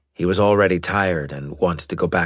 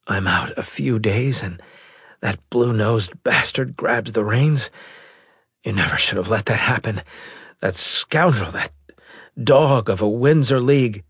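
angry; 4 semitones higher than usual. Acted. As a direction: rage at the rival. Admiral angry at rival.

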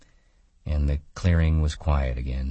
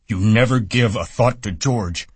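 put-on higher, louder, nagging old woman; scolding aunt in Lennie's voice; 7 semitones higher, 6 dB louder than usual. A narrator's reading. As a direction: scold him like a stern aunt. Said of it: "she went on in Lenny's voice".

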